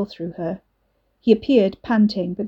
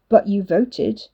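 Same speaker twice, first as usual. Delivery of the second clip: slow, hurt, a touch wounded; sounding hurt; slower than usual. Acted. Liam to Wes, slow and mildly hurt. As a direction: let the hurt slow you down. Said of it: "Liam sounded hurt".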